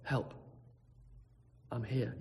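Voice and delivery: barely voiced croak, no breath left; faint croak. Castaway under a tree croaking weakly for help. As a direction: scrape the words out weakly. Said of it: "Just quietly".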